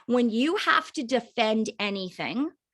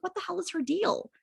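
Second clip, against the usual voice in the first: higher-pitched, put-out mock scoff; mock annoyed prospect; 7 semitones higher, 4 dB quieter than usual. Voicing a turned-off prospect to the team, mildly scoffing. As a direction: scoff like an irritated onlooker. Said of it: "they're gonna be like".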